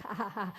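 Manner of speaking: short, low, soft ha-ha-ha; joke laughter. Shown as a demonstration. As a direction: imitate a brief polite laugh. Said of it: "not just the joke laughter".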